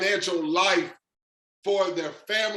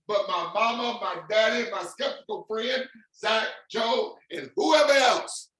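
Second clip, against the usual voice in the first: excited list climbing higher, stretched at the end; getting excited; 4 semitones higher than usual. Real, not acted. Pitching the crowd on everyone who will earn, getting excited. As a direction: build to a big, drawn-out finish. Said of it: "now I'm getting excited".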